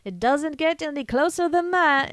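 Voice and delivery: lightly voiced Sean Connery; relieved dad. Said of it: "his dad's like".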